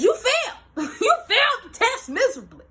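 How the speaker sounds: high laughing quote; giggly and high. Real, not acted. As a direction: laugh through the words. Laughing while quoting husband.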